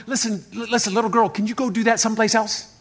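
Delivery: a touch of irritation, still restrained; mildly annoyed. Acted. Apostle asking a pestering girl to leave, mildly annoyed. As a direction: ask with mild, held-back annoyance. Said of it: "Paul was annoyed".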